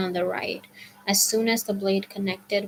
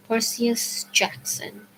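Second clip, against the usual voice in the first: put-on southern accent; 2 semitones higher, slower than usual. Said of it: "said in an accent that was definitely from somewhere farther south than Georgia".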